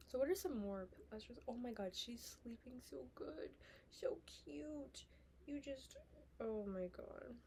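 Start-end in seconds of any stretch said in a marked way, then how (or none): 1.5-7.4 soft whisper so the dog keeps sleeping. Real, not acted. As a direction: hush it, don't wake the dog. Dog sleeping beside her.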